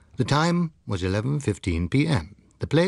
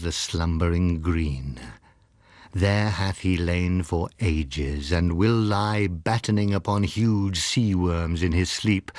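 poem recitation; 3 semitones lower than usual. A narrator's reading. Husband reciting Tennyson's Kraken for his book, solemn recital. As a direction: read it like an ancient sea legend.

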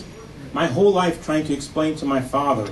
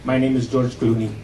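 put-on Indian accent. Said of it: "I know you've heard this voice before".

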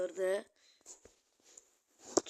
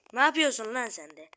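angry yell; 7 dB louder than usual. Real, not acted. Yelling at teammate.

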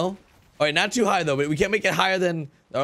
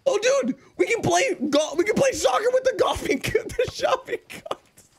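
high giddy shouting; shouting with laughter; excited shouting. Real, not acted. Excited idea while laughing.

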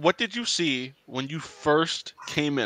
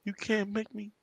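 hushed, stubborn whisper; a scared hider refusing to come out; whispering while hiding; 4 semitones higher, 14 dB quieter than usual. Pretend. Voicing the hiding player.

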